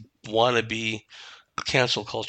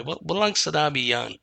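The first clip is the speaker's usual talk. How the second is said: dismissive; 2 semitones higher than usual. Retold or imitated. Quoting mom's Tagalog saying about braggarts, dismissive. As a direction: brush it off, "walang sinabi yan" tossed away. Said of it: "said in a real dismissive way".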